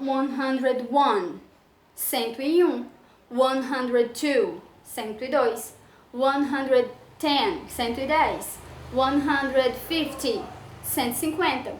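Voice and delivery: deliberate slow dictation of hundreds; slow teaching drill. Shown as a demonstration. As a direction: spell each number out slowly for pupils. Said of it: "como é importante aprender".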